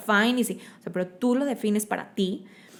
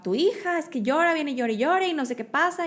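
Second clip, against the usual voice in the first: higher-pitched imitation of a panicked father; frantic dad; 8 semitones higher than usual. Daughter imitating her frantic dad telling mom she won't stop crying. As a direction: play the dad rattled, voice pitched up. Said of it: "viene histérico en el coche".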